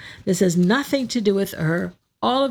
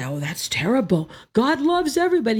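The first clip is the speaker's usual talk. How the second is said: mock objector; 2 semitones higher than usual. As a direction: imitate a shocked churchgoer, rushing the end. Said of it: "Now, you might say".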